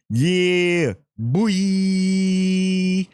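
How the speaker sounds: high, drawn-out hype call; hype shout. Real, not acted. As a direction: cheer him on like a fan. Hyping up a favorite character.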